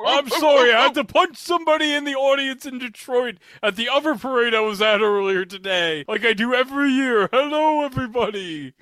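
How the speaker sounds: loud, high jolly Santa; booming ho-ho Santa greeting; Santa Claus voice. Retold or imitated. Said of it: "That's right, Santa Claus".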